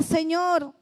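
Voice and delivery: anguished plea. Acted. Preacher voicing Jonah crying to God from the sea, anguished plea. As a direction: beg God like a drowning man.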